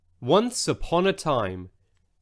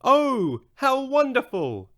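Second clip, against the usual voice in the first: higher, delighted gasp of wonder; excited exclaim; 9 semitones higher, slower than usual. A narrator's reading. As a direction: exclaim in delight, pitched up high. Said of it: "She exclaimed".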